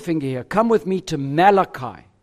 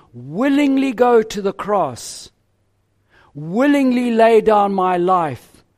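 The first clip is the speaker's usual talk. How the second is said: voicing Christ in first person; 2 semitones higher than usual. Preacher speaks as Christ.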